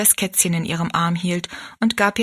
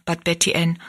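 usual speaking voice

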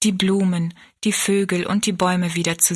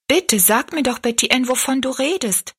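put-on higher, urging girl's plea; imploring, pitched up; pleading; 6 semitones higher than usual. A narrator's reading. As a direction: beg her to explain, voice lifted. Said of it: "bat Rosalie".

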